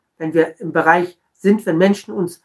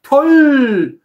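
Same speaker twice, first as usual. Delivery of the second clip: mock overjoyed. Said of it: "freudestrahlend den Leuten entgegengehen".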